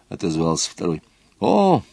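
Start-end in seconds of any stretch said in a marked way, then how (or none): 1.4-1.8 возмущённо. Acted. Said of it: "возмутился Ролан".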